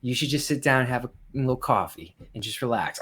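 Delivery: lightly voiced Southern lady; a hint of a sweet older Southern woman; mild impression of a Southern auntie. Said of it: "how every older woman in the South talks".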